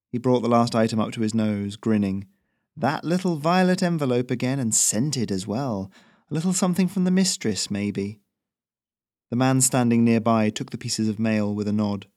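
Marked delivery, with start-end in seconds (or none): 2.7-8.2 Ferrino teasing. Acted. Ferrino teasing about letter.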